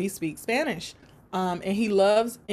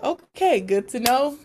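amused okay; 3 semitones higher, 3 dB louder than usual. Retold or imitated. Amused acceptance.

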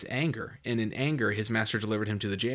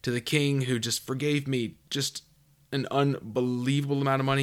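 imagined expectation; 2 semitones higher than usual. Pretend. Preacher voicing what listeners expect the servant to say, mock certain. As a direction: spell out the listeners' hopeful assumption. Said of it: "we'd like to be like".

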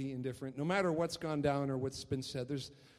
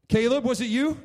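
questioning dad; 10 semitones higher, 11 dB louder than usual. Retold or imitated. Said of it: "dad questioning son".

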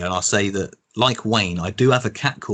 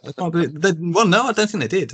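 put-on Brummie accent; 9 semitones higher than usual. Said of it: "said that about eight times".

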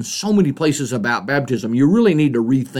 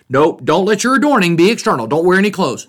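mildly exaggerated, higher-pitched mock strictness; mock literalism; 4 semitones higher than usual. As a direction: lay down an absurd rule, pitched up a little. Mocks an over-literal reading.

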